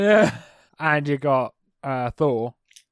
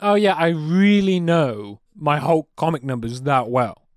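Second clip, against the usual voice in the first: slow, drawn-out sarcasm; sarcastic boast. Acted. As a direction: pretend you know it all, dripping with irony. Mock boast about impossible question.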